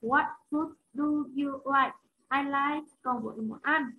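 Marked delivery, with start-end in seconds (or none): 0.0-2.0 "What food do you like?" said slowly, weight on "food"; slow model sentence. Shown as a demonstration. Teacher modelling the question slowly for the class. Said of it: "Chưa?".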